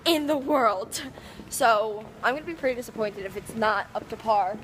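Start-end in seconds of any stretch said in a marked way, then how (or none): 0.0-1.0 "In the world." said loud and rising, as if in caps; all caps emphasis. Retold or imitated. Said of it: "In all caps".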